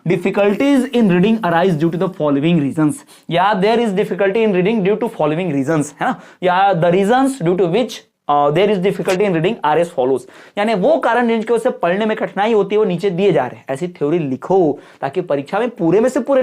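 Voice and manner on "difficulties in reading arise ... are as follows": dictating each word slowly for notes; slow dictation. Shown as a demonstration. Teacher dictates exam answer to students, slow and deliberate. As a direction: spell out the model answer slowly. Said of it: "पहले theory बनाओ".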